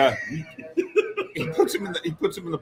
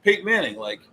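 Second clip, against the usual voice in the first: announcer voice; 3 semitones higher than usual. Retold or imitated. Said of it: "he's just like".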